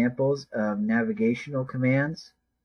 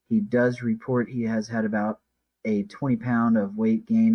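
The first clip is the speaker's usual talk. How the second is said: dictating. Shown as a demonstration. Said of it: "I'll do it in a slow, consistent, uh, speed".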